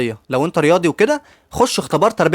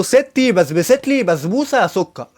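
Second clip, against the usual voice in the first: said out loud, slowly; 2 semitones higher, slower than usual. Retold or imitated. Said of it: "قال لي بصوت عالي".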